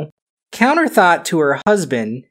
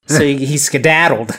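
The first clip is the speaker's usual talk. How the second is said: plain; Scottish accent. Acted. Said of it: "my Scottish accent for today".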